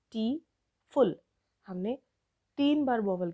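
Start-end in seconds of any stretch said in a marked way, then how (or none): 0.0-1.2 ब्यूटीफुल broken slowly into ब्यू, टी, फुल; three separate, measured beats on ब्यूटीफुल; syllable by syllable. Shown as a demonstration. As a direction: sound out ब्यूटीफुल with a pause between syllables. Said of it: "हम ऐसे ही बोलते हैं ना".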